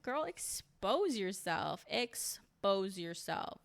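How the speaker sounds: slow, drawn-out cheering on; encouraging hype. Retold or imitated. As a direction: egg her on slowly, savouring each word. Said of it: "I was like".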